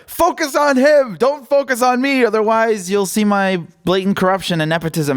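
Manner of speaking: high, mock-indignant yell at the reporter; mocking Biden yelling. Mimicking Biden snapping at the reporter, high mock yell. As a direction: parody a politician shouting to deflect. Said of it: "he's just yelling at the reporter".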